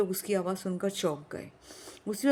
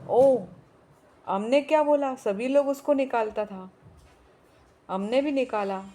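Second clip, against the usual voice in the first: angry Pathan shouting; 2 semitones higher, 5 dB louder than usual. Acted. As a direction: yell back in outrage. Pathan shouting back in anger.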